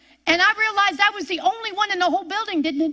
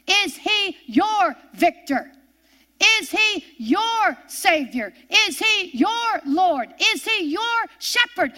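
preaching call; 3 semitones higher, slower than usual. Real, not acted.

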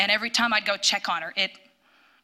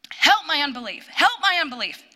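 higher, louder pleading cry, repeated; desperate loud plea; 7 semitones higher, 3 dB louder than usual. Retold or imitated. Mother praying over her screaming daughter, desperate cry. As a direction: beg God with all you have, voice up. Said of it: "as loud as I could".

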